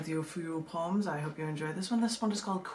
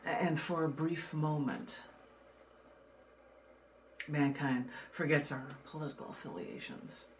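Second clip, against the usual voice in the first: measured, deliberate poetry reading with pauses; poem reading; 2 semitones lower than usual. Acted. Reads her poem aloud.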